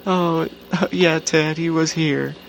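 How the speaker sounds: nervous laugh. Retold or imitated. Wife caught, answering nervously.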